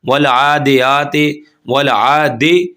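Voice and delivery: slow drawn-out recitation, wrong vowel on आदे; wrong reading. Shown as a demonstration. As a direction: recite आदियाते stretching each syllable. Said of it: "दाल जे दे पढ़ते हैं".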